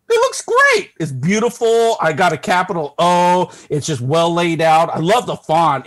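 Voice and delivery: high, loud, over-the-top delight; mock gushing. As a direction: gush as if wildly impressed, pitch leaping up. Sarcastically gushing over his name.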